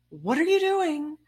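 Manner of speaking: high, loud mock yell at a teammate; captain yelling across the field, mock shout. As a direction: bark it like an annoyed captain. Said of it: "he yells at me".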